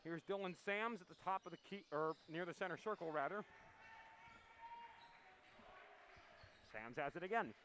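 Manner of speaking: winded after running upstairs; out of breath, still panting. Real, not acted. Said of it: "ah, catching my breath".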